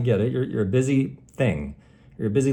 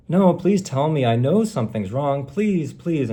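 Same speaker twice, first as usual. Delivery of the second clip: put-on pleading boyfriend; 4 semitones higher than usual. Boyfriend begging girlfriend to explain, mock pleading. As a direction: beg her to tell you, hammed up a touch. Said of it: "But he could also say".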